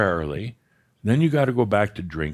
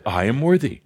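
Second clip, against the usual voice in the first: laughing affirmation; 3 dB louder than usual. Shown as a demonstration. Teacher repeating the affirmation with a laugh. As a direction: declare it through a laugh. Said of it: "I think I did a master's pause".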